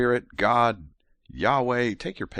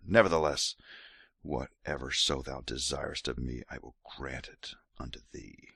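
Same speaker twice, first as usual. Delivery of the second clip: soft, seductive scripture reading; sexy voice; 3 semitones lower, 3 dB quieter than usual. Acted. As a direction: murmur each line like a lover's offer. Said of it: "gonna keep going with sexy voice".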